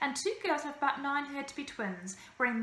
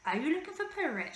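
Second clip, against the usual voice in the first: bearded lady voice; 6 semitones higher than usual. A narrator's reading. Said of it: "she asked".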